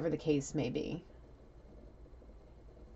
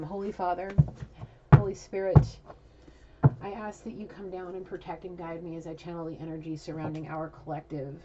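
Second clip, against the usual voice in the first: measured, reverent invocation; prayer; 2 semitones higher than usual. Real, not acted. Reader asking for guidance before channeling, measured prayer.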